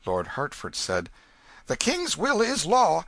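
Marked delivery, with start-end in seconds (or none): 1.7-3.0 courtier. A narrator's reading. Hertford answers the king.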